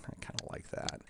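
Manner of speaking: half-whispered aside to himself; muttered to himself. Real, not acted. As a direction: mumble it under your breath while tinkering. Muttering to himself while adjusting.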